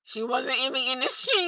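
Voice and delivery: deadpan mimicry, lightly done; a serious kid's dry statement; imitating emotionless son. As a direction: report it with no emotion at all. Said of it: "no emotions".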